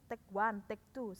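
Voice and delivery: "take one, take two" with "take" as "tek"; imitating learners' short-vowel "take"; common mispronunciation.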